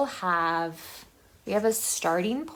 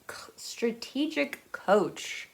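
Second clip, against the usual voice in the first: slow, hushed conspiratorial whisper; whispered aside; 3 semitones higher, slower than usual. Acted. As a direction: lean in and whisper it like a secret. Conspiratorial aside about the author's company.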